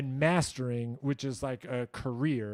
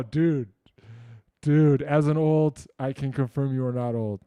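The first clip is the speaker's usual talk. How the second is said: delighted loud read; 7 dB louder than usual. Real, not acted. Reading a viewer's kind comment aloud, loud and delighted. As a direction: belt it out, tickled by the compliment.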